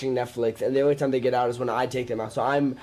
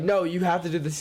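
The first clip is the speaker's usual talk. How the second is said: slightly raised, urging voice; insistent retold order; 4 semitones higher than usual. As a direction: press them to go through with it, acted out. Retold movie scene, characters arguing.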